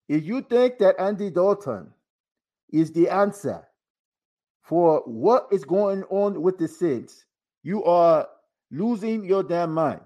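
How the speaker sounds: slow, proud superhero pronouncement; Black Panther voice. Pretend. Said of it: "I will read this like the Black Panther".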